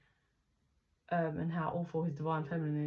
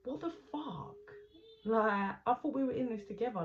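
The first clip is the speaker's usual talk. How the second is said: crying in confusion; 4 semitones higher than usual. Retold or imitated. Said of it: "she cries 'cause she's like".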